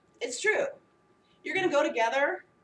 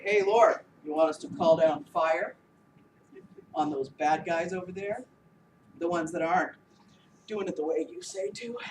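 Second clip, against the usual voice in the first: eager disciples; 8 semitones lower, 5 dB louder than usual. Acted.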